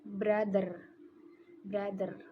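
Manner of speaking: brother with a d for th; Indonesian style. Shown as a demonstration. Student showing how Indonesians say brother. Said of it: "It's like".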